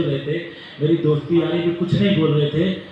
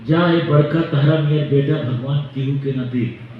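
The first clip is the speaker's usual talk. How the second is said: mother's UP dialect curse. Retold or imitated. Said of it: "तो UP में बोल रही थी कि".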